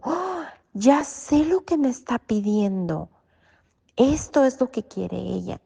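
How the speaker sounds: a high, sharp oh, then lively; the penny drops mid-dream; sudden realisation. Retold or imitated. Realising in the dream what her comadre needs, surprised.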